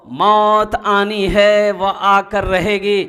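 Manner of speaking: sustained, ringing pulpit delivery; preaching warning. Real, not acted. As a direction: stretch each word as a grave warning. Preacher's chanted warning of death.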